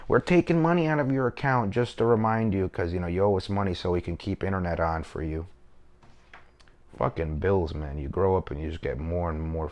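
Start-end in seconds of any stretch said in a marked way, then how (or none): 0.1-5.5 imitated company message. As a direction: read out the provider's reminder in a put-on voice. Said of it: "a fucking message from Optimum".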